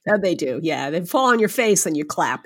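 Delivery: ordinary talk, nothing marked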